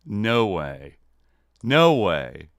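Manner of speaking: surprised. Real, not acted. Recognizing the guest.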